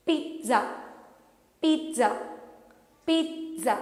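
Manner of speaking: pizza with a very soft t. Shown as a demonstration. Teacher softening the t in pizza. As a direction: say pizza with the t barely heard. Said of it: "but very softly".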